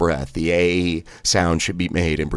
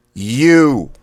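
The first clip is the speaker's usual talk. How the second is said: "You" thrust out high and loud; sharp blast; 6 semitones higher, 6 dB louder than usual. Shown as a demonstration. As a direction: punch "You" out with all your air. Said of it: "You thrust out quickly, sharply".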